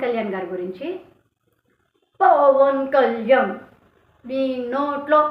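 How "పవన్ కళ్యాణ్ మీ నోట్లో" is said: loud, slow imitation of a ranting speaker; mock yell. Mocking a rival speaker's shouting at a rally, loud and slow. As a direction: ham up the opponent's bellowing. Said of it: "ఏంట్రా అరుపులు".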